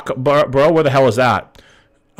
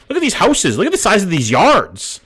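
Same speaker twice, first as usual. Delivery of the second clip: higher, excited gushing over big houses; 5 semitones higher than usual. Real, not acted. Streamer tells chat he is amazed by the houses, excitedly. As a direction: ooh at each house, thrilled and impressed.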